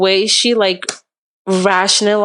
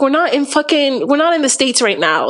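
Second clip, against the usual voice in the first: retold livid scolding; 5 semitones higher than usual. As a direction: re-enact scolding a friend for bad behavior. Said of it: "I was livid".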